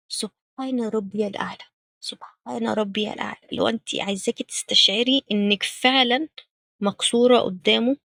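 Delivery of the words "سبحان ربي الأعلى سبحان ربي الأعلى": much softer, humble murmured praise; soft humble tasbih. Shown as a demonstration. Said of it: "حاولي تقوليه بصوت واطي شوية، بخشوع، بكسرة". (تسبيح بصوت واطي وخشوع)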